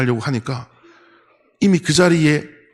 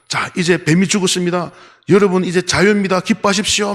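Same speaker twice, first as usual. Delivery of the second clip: rising, higher and higher triumphant proclamation; proclaiming shout; 5 semitones higher than usual. Retold or imitated. Pastor announcing to the people the snake is dead, triumphant proclamation. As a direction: announce the victory with growing joy. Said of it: "막 외치는데".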